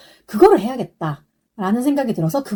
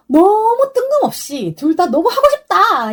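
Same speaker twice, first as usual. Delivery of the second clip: excited agreement; 11 semitones higher, 4 dB louder than usual. Retold or imitated. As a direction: retell it as a gushing, enthusiastic outburst. Retelling their eager shared song choice.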